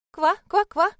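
loud, high rattling croaks; frog croaking. Acted. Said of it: "Лягушачье кваканье, дребезжащее и противное".

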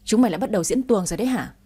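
fast, mildly voiced seething mother; a hint of clenched-teeth anger, hurried; mother mutters at the two girls through gritted teeth. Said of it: "nghiến răng".

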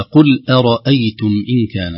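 loud model recitation of أرأيتم with light hamzas; careful articulation. Shown as a demonstration. Teacher reciting the verse for students, careful articulation. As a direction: recite أرأيتم with thin hamzas around a full ra. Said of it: "نلاحظ كلمة أرأيتم".

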